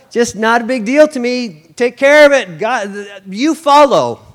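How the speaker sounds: tossed off breezily with a laugh; laughing mock Jesus.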